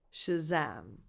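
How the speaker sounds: "Shazam" low, stressed on "zam"; second-syllable stress. Shown as a demonstration. Teacher putting the word together, "Shazam" stressed on "zam". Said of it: "The stress is on the second syllable".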